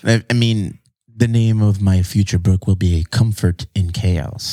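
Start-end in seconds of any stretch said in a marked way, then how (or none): 1.1-4.5 announcer voice. Pretend. Announcing book title grandly.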